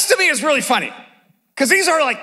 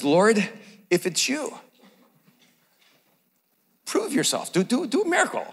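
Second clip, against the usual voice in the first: softer, testing request, a touch hesitant; doubtful Peter; 4 semitones lower, 7 dB quieter than usual. Retold or imitated. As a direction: Peter quietly asking for proof. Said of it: "Then Peter says".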